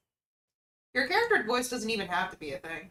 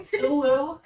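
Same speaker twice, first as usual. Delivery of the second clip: put-on anime girl voice; 5 semitones higher, 5 dB louder than usual. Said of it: "the speaker's anime girl voice".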